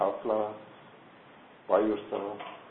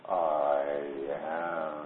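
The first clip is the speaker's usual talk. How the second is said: "I", a long pause, then "am" falling lower; pause between I and am; 6 semitones lower than usual. Shown as a demonstration. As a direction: split "I" and "am" with a clear, deliberate gap. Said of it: "A distinct pause".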